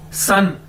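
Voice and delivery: सन said as Chinese san, drawn out. Shown as a demonstration. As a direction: say सन like the Chinese word for three. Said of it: "इसी तरह सन".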